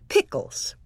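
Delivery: low, matter-of-fact question; a calm mother asking; mom voice. A narrator's reading. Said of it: "Then Mom said".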